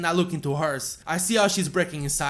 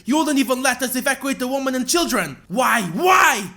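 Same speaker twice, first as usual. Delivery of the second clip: shouting, louder and higher; raging grief; 6 semitones higher, 4 dB louder than usual. Acted. Grieving father shouting at the enemy girl, raging. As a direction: hurl the questions in fury. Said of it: "rage and another tone of sorrow take over".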